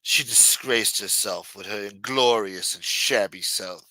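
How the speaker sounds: slow, haughty put-on British accent; mock-British scorn, unhurried. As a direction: draw it out like a disdainful Brit. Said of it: "it just sounds better when you say it British".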